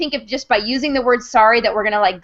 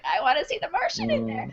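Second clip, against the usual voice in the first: mock whine; 11 semitones higher, 9 dB quieter than usual. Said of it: "I was like".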